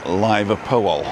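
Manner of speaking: Liverpool as "Lyver-pool", slow, long i; mispronounced Liverpool. Shown as a demonstration. Comparing a wrong name to mangling Liverpool. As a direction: mispronounce Liverpool with "lie" at the start. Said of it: "it's like calling Liverpool".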